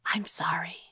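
soft whispered sorry; whispered apology. Acted. Kira apologising to Thomas in the corridor, whispered. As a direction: apologise under your breath. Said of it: "Kira whispered back".

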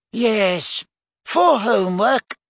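high squeaky scolding little voice; squeaky reproachful. A narrator's reading. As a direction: squeak it out, tutting. Flitwick voice again.

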